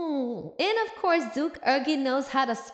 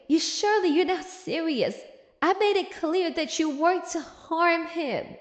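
raised, higher voice imitating an outraged scream; mock scream; 3 semitones higher than usual. Character confronting someone over harming him, mild mock scream. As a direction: act out an outraged scream without fully yelling. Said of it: "she's screaming".

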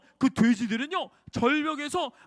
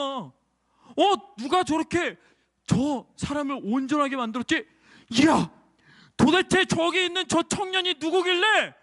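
amazed villagers; 3 semitones higher than usual. Acted. Amazed villagers ask who Jesus is.

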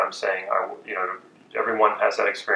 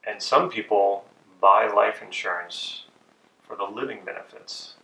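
slow soothing sales pitch. Shown as a demonstration. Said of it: "Third statement".

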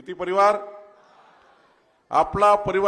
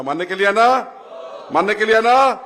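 louder, higher call for agreement; 4 semitones higher, 6 dB louder than usual. Real, not acted. Politician asks the crowd to raise both hands, loud call. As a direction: demand the crowd's yes.

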